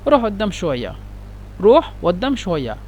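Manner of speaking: قدام said /adam/ with no q, Egyptian style; Egyptian Arabic. Shown as a demonstration. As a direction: quote it like a Cairo local. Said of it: "مصريين ينطقون".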